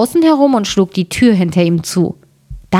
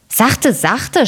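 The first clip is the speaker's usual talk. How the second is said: beschwichtigend; 5 semitones higher than usual. A narrator's reading. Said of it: "sprach er".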